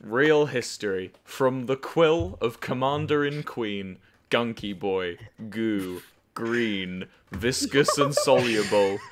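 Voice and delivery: slow, grand proclamation of titles; mock-solemn reading of the queen's titles; dramatic reading. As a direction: read it like a royal herald. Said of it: "Ooh, dramatic reading".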